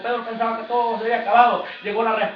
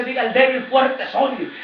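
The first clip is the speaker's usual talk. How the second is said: louder declaration; declaring scripture; 4 dB louder, slower than usual. Shown as a demonstration. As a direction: proclaim it boldly. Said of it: "La palabra dice".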